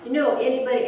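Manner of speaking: rising, indignant teacher scolding. Retold or imitated. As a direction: scold him like an outraged teacher.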